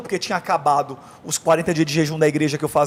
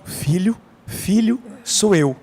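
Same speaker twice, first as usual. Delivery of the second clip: gentle calling; 2 semitones higher, much slower than usual. Retold or imitated. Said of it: "começava a falar comigo devagarzinho".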